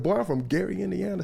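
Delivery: lightly voiced retort, close to the storyteller's own pitch; a toned-down take on the star's tough voice; a pop star. Storyteller replaying the singer's hometown boast, lightly mock-tough. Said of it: "The pop star's voice can get pretty deep".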